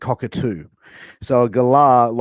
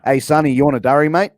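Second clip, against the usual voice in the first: quick Aussie quote; 3 dB louder than usual. Shown as a demonstration. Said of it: "here's another one".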